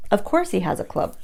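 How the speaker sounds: sarcastic aside. Real, not acted. Sarcastic aside about the devil.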